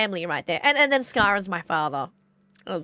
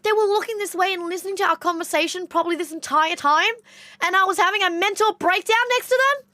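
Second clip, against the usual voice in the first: high-pitched, mortified retelling; panicked cousin; 8 semitones higher than usual. Retold or imitated. Cousin reliving her breakdown next to them, high and frantic. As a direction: imitate a cousin freaking out, pitched well up. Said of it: "And she goes".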